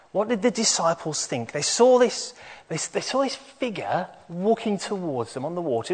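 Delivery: put-on animated storytelling for children; bright, bouncy children's presenter; kids show host. Leads children's talk with animation.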